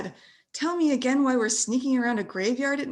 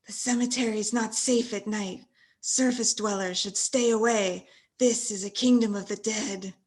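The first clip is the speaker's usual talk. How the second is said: a lightly lower, solemn ghoul; ghoul warning; 6 semitones lower than usual. Acted. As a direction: warn the intruder gravely. Ghoul speaks to boy.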